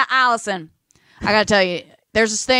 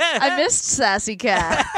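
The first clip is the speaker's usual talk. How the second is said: laughing; much slower than usual. Real, not acted. Laughing about Sassy Cat.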